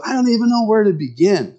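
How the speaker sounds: overwhelmed man. Retold or imitated. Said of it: "men look at this and go".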